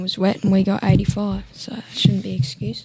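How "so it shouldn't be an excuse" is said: whispered aside. Real, not acted. Muttered aside about wet weather.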